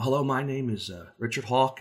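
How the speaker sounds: natural, lightly lifted self-introduction; friendly inflection. Shown as a demonstration. Coach introduces himself to someone new, friendly inflection. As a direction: introduce yourself with easy inflection. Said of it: "whether there is an inflection".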